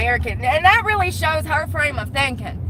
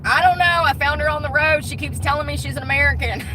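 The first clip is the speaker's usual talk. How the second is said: higher, lightly acted bewilderment; mock bewildered helper; 3 semitones higher than usual. Pretend explaining to ER staff, mock bewilderment. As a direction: play a clueless good Samaritan, lightly. Acts out dropping her at ER.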